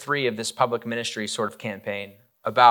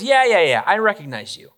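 put-on teenage girl accusing; 7 semitones higher, 5 dB louder than usual.

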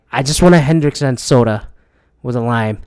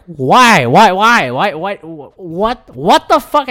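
retold baffled outrage, pitch jumping at the end; exasperated disbelief; 3 semitones higher, much slower than usual. Speaker reacting to the tariff war, exasperated disbelief.

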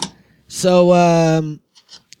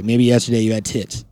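creepy voice; 4 semitones lower than usual. Real, not acted. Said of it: "I don't know why my voice did that".

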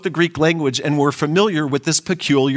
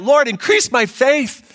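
a believer crying out to forgive, slow and raised; crying out in prayer; 2 semitones higher than usual. Acted. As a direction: draw out the plea to God. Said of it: "I need to cry out".

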